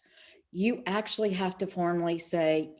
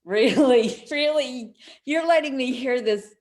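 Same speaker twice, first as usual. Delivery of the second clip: surprised; 5 semitones higher, 5 dB louder than usual. Retold or imitated. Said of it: "And I'm like".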